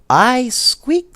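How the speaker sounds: high, loud squeaky voice; squeaky little toy explaining; squeaky Dodo. A narrator's reading. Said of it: "said Dodo".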